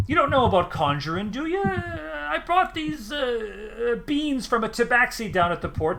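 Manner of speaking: high, rambling, rustic little man; proud farmer rattling on about his beans; high rustic halfling gabbing away; chatty halfling farmer. Acted.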